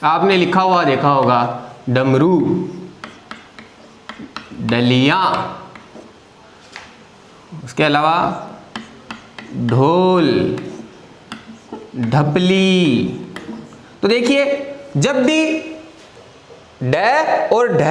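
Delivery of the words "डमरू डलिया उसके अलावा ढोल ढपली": डमरू, डलिया, ढोल, ढपली spoken slowly and low with pauses; example words. Shown as a demonstration. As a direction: read out the examples one by one for students. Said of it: "जैसे".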